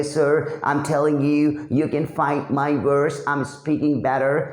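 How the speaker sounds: slow, smooth, carefully fluent English; smooth fluent speaker. Retold or imitated. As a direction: glide through each word without stumbling. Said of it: "इस तरीके से बोल रहा है". (धीमी, साफ़ और सहज अंग्रेज़ी)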